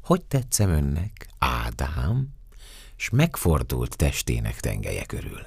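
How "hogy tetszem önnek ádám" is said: flirtatious question, lilting up at the end; lightly flirting woman's voice; coquettish. Acted. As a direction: ask it coyly, rising on the name. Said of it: "szólott kacéran".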